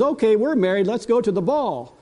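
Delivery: a hint of a delighted toddler; granddaughter's voice. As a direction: grandpa imitating the girl calling him to the dance. Granddaughter announces the ball.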